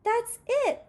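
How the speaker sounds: a small mouse who just decided; excited announcement. A narrator's reading. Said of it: "announced Livingston".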